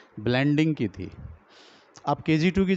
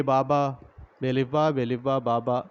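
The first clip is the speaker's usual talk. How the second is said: dictation; 3 semitones lower than usual. Shown as a demonstration. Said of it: "dictation".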